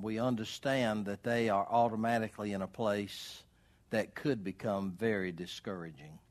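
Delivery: prayer. Acted. Preacher praying for the homebound, earnest prayer. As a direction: pray gently for the homebound.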